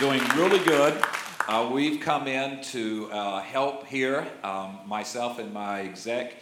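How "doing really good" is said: louder, leaning on REALLY; "doing really good", REALLY hit hard and louder; emphatic repeat. Shown as a demonstration. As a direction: say it again with conviction. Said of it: "and yes, amen".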